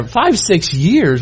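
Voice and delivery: slow disbelieving "Five, six years?"; mock shocked question; incredulous. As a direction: stretch it out in disbelief. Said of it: "And we're like".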